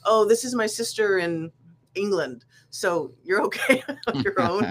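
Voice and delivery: imitating the owner while laughing; a light mock voice breaking into laughter; laughing through a quote. Imitating snackette owner on phone.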